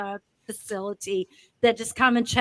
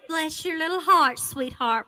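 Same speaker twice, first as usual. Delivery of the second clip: sugary, higher-pitched Southern sweetness; honeyed Southern endearment; sweet Southern charm; 4 semitones higher than usual. Shown as a demonstration. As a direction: coo it like a kindly Southern belle. Demonstrates Southern phrase sweetly.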